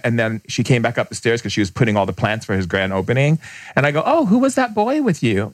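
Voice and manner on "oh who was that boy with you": high mock voice. Retelling his question to the woman.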